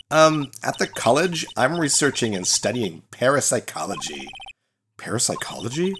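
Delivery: lightly voiced ditzy Valley Girl; Valley Girl accent. Student greeting the lawyer in a Valley Girl accent. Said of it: "another Valley Girl accent".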